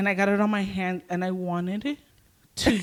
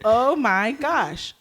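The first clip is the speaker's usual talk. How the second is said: slow, drawn-out mimicking, slightly higher; mocking; 4 semitones higher, much slower than usual. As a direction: imitate a toddler parroting someone's horror. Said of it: "he starts mocking me".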